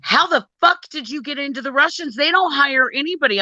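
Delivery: lightly voiced shocked boss; incredulous boss. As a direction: play the stunned boss on the phone. Boss voiced in retold call.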